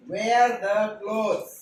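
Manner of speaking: very slow and deliberate; slow teaching drill. Shown as a demonstration. Teacher repeating the phrase slowly to pupils. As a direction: lay out each word for the class. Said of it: "काय?".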